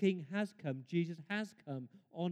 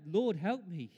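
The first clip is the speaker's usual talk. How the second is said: louder, drawn-out plea; half-raised call for help; 3 semitones higher, 6 dB louder, slower than usual. Retold or imitated. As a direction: imitate a cry to the Lord. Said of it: "You ever called out".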